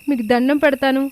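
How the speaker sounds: high, pleading మీకు దండం పెడతాను; frightened begging. A narrator's reading. Anamika begging the thugs, high frightened plea. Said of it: "అంటూ వేడుకుంటూ ఉంటుంది".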